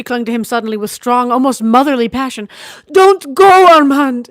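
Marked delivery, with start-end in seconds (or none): 2.9-4.3 much higher, louder desperate plea; begging. A narrator's reading. Sister begging brother not to sail, desperate. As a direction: beg him not to leave. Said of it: "she begged".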